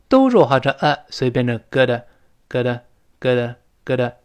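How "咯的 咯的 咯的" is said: slurred go to as 咯的; quick gotta. Shown as a demonstration. Teacher demos go to slurred into 咯的. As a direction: say 咯的 light and fast, t voiced. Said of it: "一带而过".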